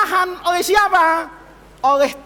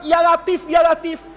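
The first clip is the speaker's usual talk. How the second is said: pleading invocation; 3 semitones higher than usual. Retold or imitated. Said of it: "Kenapa kamu berharap".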